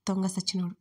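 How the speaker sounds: usual speaking voice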